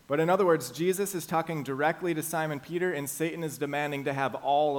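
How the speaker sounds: forceful preacher emphasis; emphatic preaching. Real, not acted. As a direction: press the point home. Emphatic sermon point.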